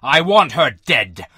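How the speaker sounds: low, drawn-out furious demand; angry shout. A narrator's reading. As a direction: roar it slowly as an enraged general. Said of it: "he shouted".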